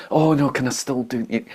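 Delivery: whiny inner voice. Retold or imitated. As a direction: imitate a whining ego asking for permission. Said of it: "that whiny, bitchy, ungrateful voice".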